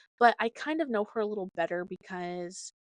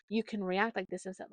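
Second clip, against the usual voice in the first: gentle. Shown as a demonstration. Parent gently guiding her kid to a better reaction. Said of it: "gently kinda tell her".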